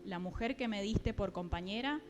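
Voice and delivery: measured, deliberate Bible reading; scripture reading. Acted. Preacher reads Genesis to the congregation, deliberate scripture reading. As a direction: read the verse out clearly, phrase by phrase.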